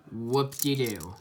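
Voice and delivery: slow, drawn-out mock cheer; deadpan fake enthusiasm; sarcastic. Real, not acted. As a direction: draw it out with unimpressed irony. Mock excitement over five rollers.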